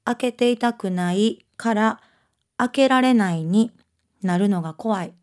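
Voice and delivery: put-on unhurried literary reading in Kansai dialect, a child's inner voice; Osaka-dialect reading. Author reads her novel's passage aloud for the interviewer, measured Osaka-dialect reading. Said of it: "大阪弁の方がやっぱり朗読上手".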